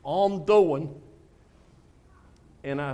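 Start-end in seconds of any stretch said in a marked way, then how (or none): 0.0-1.0 lightly voiced weary mumble; a hint of a tired old man; imitating Chief again. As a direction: echo his listless reply. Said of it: "That's exactly it".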